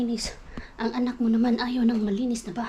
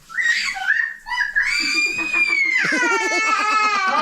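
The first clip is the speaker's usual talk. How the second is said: helpless shrieking laugh. Real, not acted. Mom losing it laughing at her toddler, shrieking. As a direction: laugh until it almost cries.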